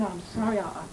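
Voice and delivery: a touch of begging forgiveness, dropping soft; retold begging. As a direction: sage softly begs the offended man's pardon, understated. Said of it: "And he's begging".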